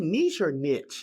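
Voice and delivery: "niche" as neesh, then "niche" as nitch; both pronunciations. Shown as a demonstration. Agent asking which way to say the word, both pronunciations. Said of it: "you can pronounce it both ways".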